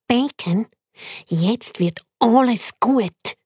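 tiny pet squeaking its complaints; squeaky guinea pig. Acted. Guinea pig to friend, squeaky and fussy.

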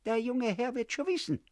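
put-on a high, sly old woman's hiss; spiteful landlady hissing at the boy. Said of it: "zischte sie".

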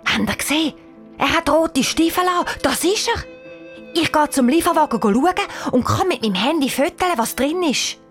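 put-on high, eager child's voice; thrilled young detective, pitch way up; excited. A narrator's reading. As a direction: burst out with it excitedly. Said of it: "Der Janik sagt aufgeregt".

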